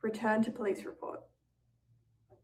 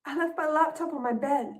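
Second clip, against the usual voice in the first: gasping realisation; 4 semitones higher than usual. Acted. Sudden realisation, gasp.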